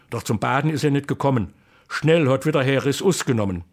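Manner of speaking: lively, rhythmic Kassel dialect verse; dialect poem recitation. Acted. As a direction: recite it like an old folk poet.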